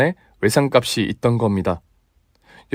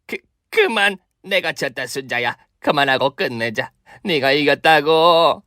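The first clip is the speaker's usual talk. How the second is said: stammering, breathless give-up plea; pleading surrender; 3 semitones higher than usual. Acted. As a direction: beg her to stop. Beaten mother-in-law surrenders. (겁먹은 항복)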